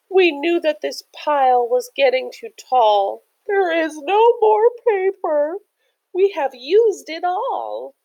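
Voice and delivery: high, worried little voices; squeaky alarmed cry; panicked scribbles. A narrator's reading. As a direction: fret about running out of paper. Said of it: "the scribbles all cried".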